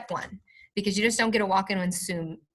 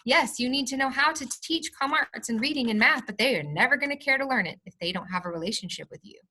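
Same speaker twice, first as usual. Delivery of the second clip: heartfelt, lively plea with higher pitch; passionate; 4 semitones higher than usual. Real, not acted. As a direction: speak up passionately for something you believe in. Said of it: "the passion in your voice".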